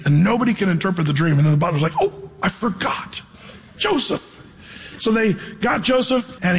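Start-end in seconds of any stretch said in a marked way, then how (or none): 2.0-4.4 sudden realization. Retold or imitated. Butler suddenly remembers.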